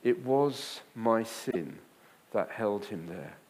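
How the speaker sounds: slow quote. Shown as a demonstration. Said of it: "great line in it".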